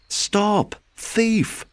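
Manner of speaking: high, loud shout after a thief; angry shout. Acted. Gardener yelling at Peter to stop, loud angry shout. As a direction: bellow it at the fleeing rabbit. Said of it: "calling out".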